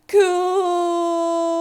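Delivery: impressed. A narrator's reading. Reacting to cool bean skills.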